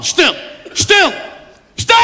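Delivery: mock dad losing patience; father demanding silence. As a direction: shush the whole family at full voice. Father hushes whole family before call.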